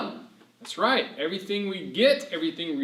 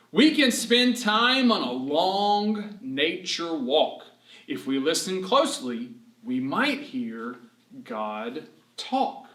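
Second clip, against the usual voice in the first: poem reading; slower than usual. Acted. Reads rhyming verse.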